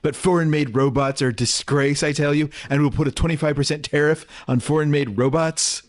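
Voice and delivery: puffed cheeks Trump voice; lightly mimicking Trump's rally cadence; Trump impression. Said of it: "Now do Trump".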